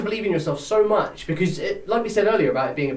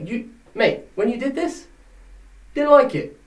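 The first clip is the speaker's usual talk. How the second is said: annoyed promo demo; 4 semitones higher than usual. Shown as a demonstration. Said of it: "You just say".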